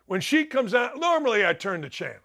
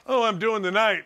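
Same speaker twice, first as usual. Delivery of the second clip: ordinary talk, nothing marked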